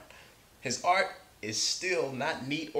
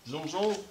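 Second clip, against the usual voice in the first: playful zoom; 6 semitones higher than usual. Pretend. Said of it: "Looks pretty fast".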